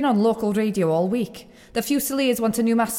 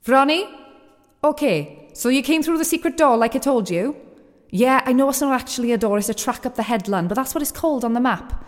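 cave echo. Acted. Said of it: "Why do I sound like I'm in a cave?".

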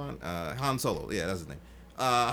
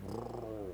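Wookiee roar; 2 semitones lower, 11 dB quieter than usual. Retold or imitated. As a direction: growl like Chewbacca. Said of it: "he's just like".

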